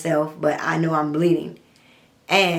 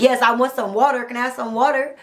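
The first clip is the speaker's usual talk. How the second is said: higher, pleading ask for water; begging; 5 semitones higher than usual. Retold or imitated. Thirsty captive begging her captor for water, pitched higher. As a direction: beg for water like you're parched.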